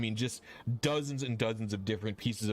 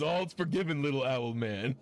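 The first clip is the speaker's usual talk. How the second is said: a touch of jovial forgiveness, pitched up; amused dragonborn; 2 semitones higher than usual. Acted. Dragonborn forgives little owl man, lightly amused. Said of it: "He just bursts into laughing".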